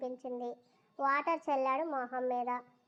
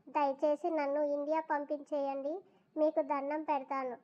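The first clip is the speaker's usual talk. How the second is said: pleading; 2 semitones higher than usual. Acted. Girl at his feet begging to go home, mildly pleading. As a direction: beg him gently to let her go. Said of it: "అని వేడుకుంది".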